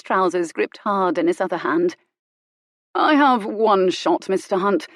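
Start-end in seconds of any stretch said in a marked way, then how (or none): 2.9-4.9 glacial politeness. Acted. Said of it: "with glacial politeness".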